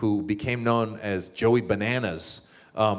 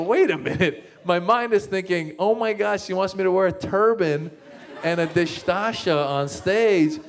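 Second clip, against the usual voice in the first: higher, louder rush of alarm; panicked realization; 8 semitones higher, 3 dB louder than usual. Retold or imitated. Comic picturing himself on stage in a turban, rising panic. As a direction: let the panic climb as it dawns. Panicked inner thoughts retold.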